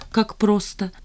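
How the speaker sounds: plain reading voice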